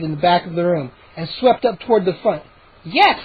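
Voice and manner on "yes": happy. A narrator's reading. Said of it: "declared happily".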